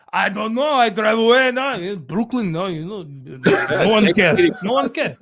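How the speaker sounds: put-on deadpan Croatian stepfather accent. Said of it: "tell it in his voice".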